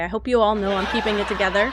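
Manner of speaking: fast, laughing, barely holding it together; holding it together with a nervous laugh; laughing through frustration. Real, not acted. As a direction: laugh it off before it cracks. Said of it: "I'm trying not to cry".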